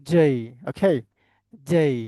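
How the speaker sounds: জেই with "j" and a gliding "ay"; corrected English J. Shown as a demonstration. Teacher shows how to say J, corrected pronunciation. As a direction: say জেই firmly as "jay". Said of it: "মুখে মুখে বলেন সবাই".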